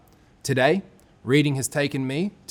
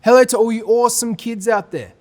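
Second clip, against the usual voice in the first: bright excited greeting; 7 semitones higher, 5 dB louder than usual. Real, not acted. Storyteller greeting the kids, excited.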